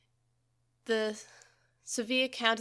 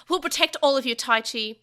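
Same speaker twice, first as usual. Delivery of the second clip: little creature shouting its vow; determined cry; 3 semitones higher, 8 dB louder than usual. A narrator's reading. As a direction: call it out bravely. Small Digimon vowing before battle.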